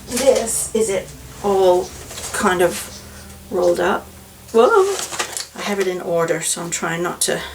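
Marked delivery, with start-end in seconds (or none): 4.5-5.0 high, louder sudden whoa; startled whoa. Real, not acted. Knitter nearly drops her rolled advent yarn, high startled whoa. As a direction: catch yourself, startled.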